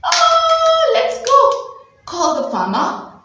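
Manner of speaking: high, loud urgent call; rally them to rush off; urgent alarm. Acted. Teacher voicing the rescue, high and urgent. Calling for help in story.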